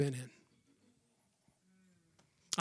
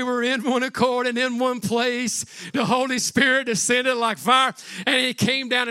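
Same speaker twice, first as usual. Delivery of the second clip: preaching shout; 3 semitones higher, 4 dB louder than usual. Real, not acted. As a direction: proclaim it like fire falling. Preacher building to climax.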